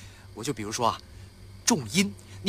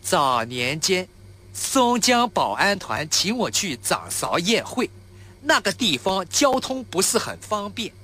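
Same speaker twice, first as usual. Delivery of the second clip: awkward Shanghai accent; 4 semitones higher, slower than usual. Shown as a demonstration. Actor rehearsing the Shanghai chef's lines for a friend, in a clumsy Shanghai accent. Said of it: "这台词就得这么念".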